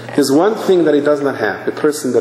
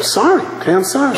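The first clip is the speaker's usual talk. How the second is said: hasty apology; 10 semitones higher, faster than usual. Acted. Acted student apologizing to professor.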